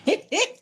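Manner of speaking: short high burst of laughter; real laugh. Real, not acted. Streamer cracking up over a viewer message, laughing.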